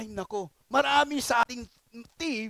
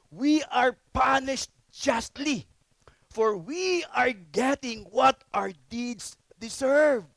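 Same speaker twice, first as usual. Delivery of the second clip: rebuke; slower than usual. Acted. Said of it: "the other criminal rebuked him".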